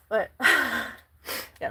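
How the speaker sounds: trembling sigh before speaking; shaky sigh. Real, not acted. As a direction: sigh shakily, fighting tears. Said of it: "my voice is shaking".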